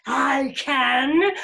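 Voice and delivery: loud bear growl. A narrator's reading. Bear insisting to the rabbit, growling. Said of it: "growled the bear".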